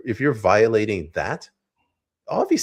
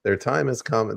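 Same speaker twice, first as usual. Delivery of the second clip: mock PA propaganda; 5 semitones higher than usual. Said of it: "they're screaming through the P A system saying".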